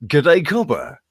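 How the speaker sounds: mock Australian accent; hammed-up Aussie greeting voice. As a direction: do a silly stock Australian accent. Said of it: "And now an Australian accent".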